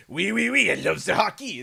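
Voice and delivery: high, loud mock French-Canadian accent; imitating the Canadian guy. Showing how he mimicked the TV Canadian guy, mock French-Canadian accent. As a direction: do the hammed-up French-Canadian bit. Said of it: "I could kinda impersonate the, the sound".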